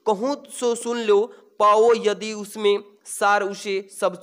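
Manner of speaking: slow, measured poem recitation; verse reading. Acted. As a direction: read the verse out slowly, word by word. Reads out verse passage. (धीमे, ठहर-ठहर कर कविता पाठ)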